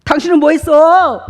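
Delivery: wife teasing her husband about his achievements; teasing jab. Pretend. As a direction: needle him playfully. Wife jokingly scolds husband.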